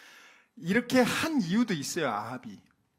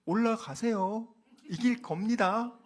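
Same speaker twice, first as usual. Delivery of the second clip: slow, drawn-out mock encouragement; sarcastic; 4 semitones higher, slower than usual. Shown as a demonstration. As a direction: say it as a sneer, slow. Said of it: "요렇게 말을 하는 거예요". (빈정거리듯 천천히)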